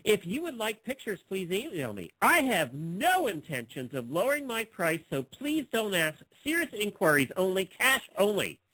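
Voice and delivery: big swoops on key words; put-on ad reading. Host reads seller's no-haggling terms, exaggerated reading. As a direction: play up every line of the ad. Reading a classified ad aloud mockingly.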